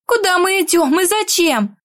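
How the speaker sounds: muffled through her hands; face in hands. Acted. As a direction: speak with hands over face. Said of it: "закрыв лицо руками". (голос сквозь ладони)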